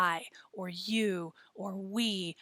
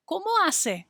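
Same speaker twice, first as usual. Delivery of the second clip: asking question; 9 semitones higher, 4 dB louder than usual. Shown as a demonstration. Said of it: "means what kind of sounds".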